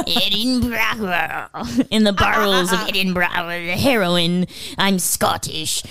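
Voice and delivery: mock Scottish. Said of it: "'cause it's all like".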